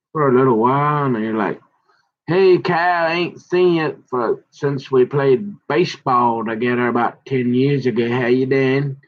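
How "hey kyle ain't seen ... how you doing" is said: higher-pitched acted-out greeting, easing down after the start; mock hearty hello, pitched up; retold friendly hail. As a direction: hail an old buddy, as if retelling it. Acts out hailing old friend Kyle.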